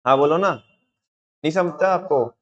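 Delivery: slow, drawn-out sarcastic taunt; sarcastic jab. Shown as a demonstration. Teacher demos a taunt for class, sarcastic and slow. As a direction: let the sarcasm drip off each word. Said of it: "उसे हिंदी में बोलते हैं व्यंग, satire".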